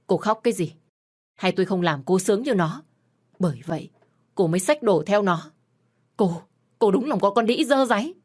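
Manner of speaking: husband sneering at his unfaithful wife, angry; angry contempt. Acted. Husband berates crying wife.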